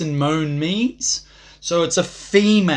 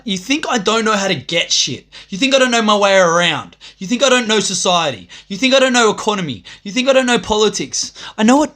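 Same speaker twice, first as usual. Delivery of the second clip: rising louder, higher rant, stress on I; building taunt; 5 semitones higher, 4 dB louder than usual. Real, not acted. Taunting viewers who think he knows nothing. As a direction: build the jab each line.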